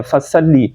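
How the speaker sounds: "فصلی" with a light whistling s; quick, light "فصلی"; thin seen. Shown as a demonstration. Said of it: "سین کو باریک پڑھتے ہیں".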